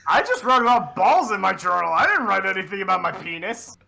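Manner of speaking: ordinary delivery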